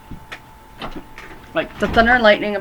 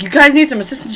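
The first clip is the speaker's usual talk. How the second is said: higher and louder dumb cop voice; mock cop; 7 semitones higher, 8 dB louder, faster than usual. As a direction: play the clueless cop who asks if they need help. Cop's reaction in retold kill scene.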